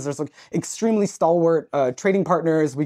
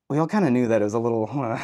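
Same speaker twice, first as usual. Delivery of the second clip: quick, lower, laughing aside; 6 semitones lower than usual. Retold or imitated. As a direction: let a guilty laugh slip through the words. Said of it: "And they're like".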